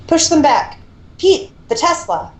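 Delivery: rally the team across the lab; shouted orders. Acted. Calling orders mid-fight.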